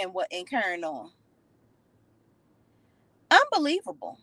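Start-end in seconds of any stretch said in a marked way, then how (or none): 3.3-4.2 incredulous. Real, not acted. Reacting to Henry flirting with Deja, high disbelief. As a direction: scoff at him in high disbelief.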